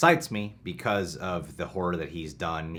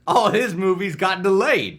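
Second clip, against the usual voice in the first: higher, bossy security guard; 11 semitones higher, 8 dB louder than usual. Acted. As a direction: wave the line through like a bored guard. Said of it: "I'll play Alfred".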